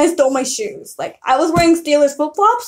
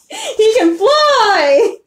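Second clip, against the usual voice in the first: high, slow, laughing through the words; can't stop giggling while saying it; 6 semitones higher, much slower than usual. Real, not acted. Repeats line, second laughing.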